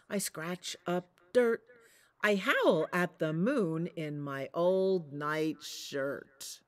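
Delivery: lightly voiced proud father wolf, steady chant; a big gray wolf boasting in rhythm. Big Wolf's chant in story.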